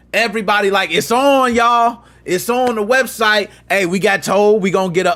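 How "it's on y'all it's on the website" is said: hyped announcement. Retold or imitated. Excited team announcing website launch.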